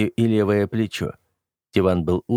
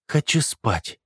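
sleepy yawn; 5 semitones higher, slower than usual. A narrator's reading. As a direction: say it mid-yawn, half asleep. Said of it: "сонно ответил я, зевая".

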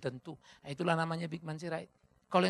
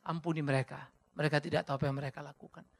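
gentle quote. Acted. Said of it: "Kemuliaan hatinya tampak nyata".

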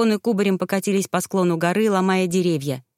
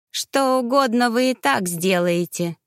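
dismissive; 3 semitones higher than usual. Acted. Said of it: "без интереса отмахнулся Мегарей".

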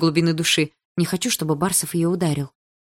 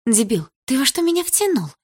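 higher, louder furious question; angry girl; 8 semitones higher, 4 dB louder than usual. A narrator's reading. Lika on the phone to Egor, angry and loud. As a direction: snap at him, no more pleading. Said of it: "спросила Малиновская уже другим тоном".

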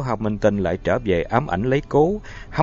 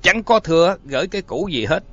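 loud, higher furious roar; 5 semitones higher, 4 dB louder than usual. A narrator's reading. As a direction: roar it at him in rage. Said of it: "Cố Hiếu gầm lên".

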